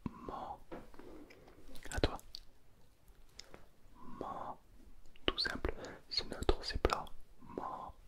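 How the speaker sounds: ma held level and flat; ma on one steady pitch; ma, flat first tone. Shown as a demonstration. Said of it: "Premier ton".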